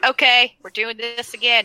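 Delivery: mock-panicked Bran; a touch of alarmed Bran. Bran freaking out, retold.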